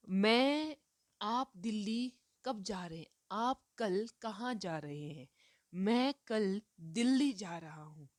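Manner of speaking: दिल्ली pushed firmly; teacher modelling force and stop; stress on दिल्ली. Shown as a demonstration. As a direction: lean on दिल्ली then pause. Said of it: "बल दिया जा रहा है".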